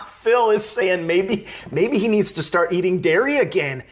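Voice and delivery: amused viewer shout-out, laughing. Real, not acted.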